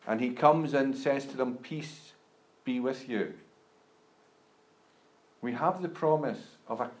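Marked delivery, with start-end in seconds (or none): 1.6-3.4 soft unvoiced "Peace be with you", much softer; whispered blessing. Quoting Jesus's greeting again softly.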